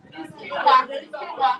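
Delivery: loud "quinoa" as KEEN-wa; model pronunciation. Shown as a demonstration. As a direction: teach "quinoa" in two syllables. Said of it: "Who does not pronounce this".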